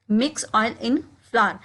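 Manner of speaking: slow, careful drill phrase; slowed classroom demo; slow model repetition. Shown as a demonstration. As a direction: say it slowly for learners to copy. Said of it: "इसको हम English में कहेंगे".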